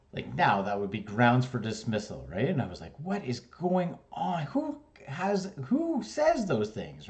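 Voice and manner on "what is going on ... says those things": much higher, incredulous voice; exasperated disbelief. Retold or imitated. Student inwardly outraged at the teacher, high incredulous disbelief.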